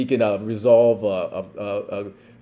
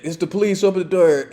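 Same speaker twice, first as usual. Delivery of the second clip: high, firm door-knock order; police command; 8 semitones higher, 6 dB louder, faster than usual. Retold or imitated. Officer to suspect through the door, firm call.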